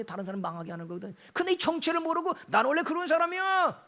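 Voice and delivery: loud, driving sermon voice at full force; fiery preaching. Acted. Pastor thundering at the congregation about anger, full-force preaching.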